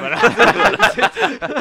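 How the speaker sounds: laughing drawl. Real, not acted. Drawn-out laughing reply.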